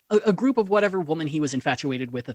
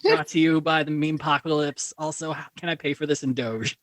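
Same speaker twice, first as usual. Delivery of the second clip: lightly voiced bragging teen; a hint of a spoiled rich kid; mocking teen impression. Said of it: "that's my impression of a teenager".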